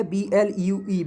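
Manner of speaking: letter by letter, slowly; slow spelling. Shown as a demonstration. Teacher spelling blue for students, slow letter by letter. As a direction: spell it out for the class. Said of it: "लिखा कैसे गया है".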